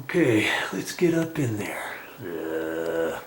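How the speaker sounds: hushed whisper going into the attic. Real, not acted. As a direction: breathe the words under your voice.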